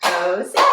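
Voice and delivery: "Jose" in two separate beats; "Jose" broken into Ho and say; syllable by syllable. Shown as a demonstration. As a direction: say "Jose" one syllable per clap. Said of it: "we'll clap twice".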